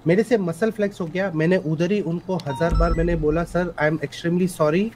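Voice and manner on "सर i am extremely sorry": slow, calm, sorry tone; gentle apology. Retold or imitated. Officer shows the judge his calm apology. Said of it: "और मेरा tone sir यही था".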